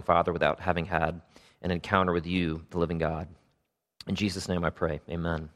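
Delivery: measured, subdued public prayer. Real, not acted. Pastor praying to the Father for the congregation, subdued prayer.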